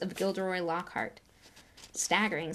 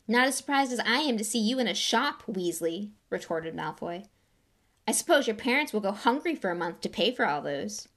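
a lightly voiced sneering rich boy; sneering schoolboy; 2 semitones higher, 4 dB louder than usual. Draco retorting to Ron, a light sneer. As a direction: needle him with contempt.

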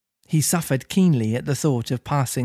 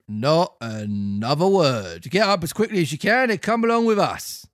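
a lightly voiced bossy copper; officer arrests the puppet; stern officer; 3 semitones higher than usual.

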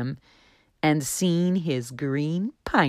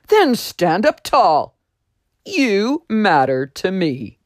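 louder, tender encouragement; voice on the wind; 3 semitones higher, 6 dB louder than usual. Acted. Voice on the wind telling Juniper he matters, tender. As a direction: lift him up with kindness. The voice continues.

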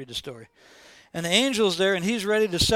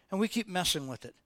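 fading repetition; 7 dB quieter than usual. Shown as a demonstration.

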